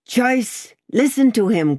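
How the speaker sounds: high-pitched scornful outburst; scowling cry. A narrator's reading. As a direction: cry out in mockery as a scowling patriot. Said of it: "cried the same scowling redcap".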